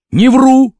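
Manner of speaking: high, loud retort; defiant denial. A narrator's reading. Vasya answers the accusation of lying, defiant.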